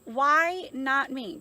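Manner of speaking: firm, slow affirmation; slow emphatic why not me. Shown as a demonstration. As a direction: say "Why not me?" slowly with conviction. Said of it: "I switch that to say".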